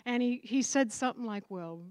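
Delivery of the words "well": slow, talking down, a bit quieter; condescending. Retold or imitated. Husband talking down to his new wife, mildly condescending. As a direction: imitate a know-it-all husband, lightly. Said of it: "some sort of condescending thing".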